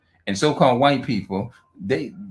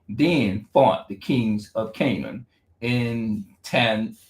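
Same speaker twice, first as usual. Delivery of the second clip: halting Bible reading; much slower than usual. Real, not acted. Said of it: "I'm just gonna read the Bible".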